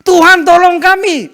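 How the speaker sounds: high, loud, slow desperate plea; crying out to God. Acted. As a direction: drag out the cry for help. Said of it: "Selesai berseru kepada Tuhan".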